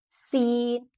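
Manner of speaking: सीन with a long whistling s; hissing seen. Shown as a demonstration. Teacher demonstrates the whistling letter to students, hissing. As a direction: hiss the s of सीन. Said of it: "सीटी जैसी आवाज़ निकलती है".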